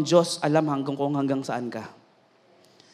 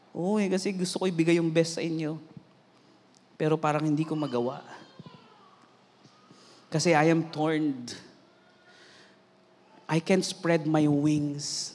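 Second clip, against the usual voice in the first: soft, low admission of being torn; subdued, halting retelling of tears; retold tearful confession; 3 semitones lower, 6 dB quieter than usual. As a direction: confess it quietly, heavy-hearted. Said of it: "So, naiyak ako".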